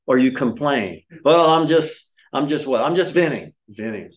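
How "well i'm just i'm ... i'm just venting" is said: high, louder, sheepish excuse; defensive whiner. Retold or imitated. Church member excusing his complaining, high defensive whine. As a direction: play the complainer caught out, defensive.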